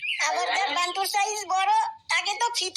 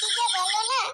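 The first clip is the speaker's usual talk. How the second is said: giggling, flattered and coy; a flattered sister-in-law giggling shyly; coy laugh. Acted. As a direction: laugh it off like you're pleased. Flattered by a flirt.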